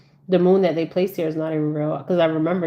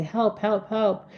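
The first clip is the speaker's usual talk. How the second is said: higher-pitched mock cries for help; a child's plea, only half acted; imitated child calling for help; 5 semitones higher, slower than usual. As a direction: lightly voice a pleading child, pitch raised. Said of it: "it's your child saying".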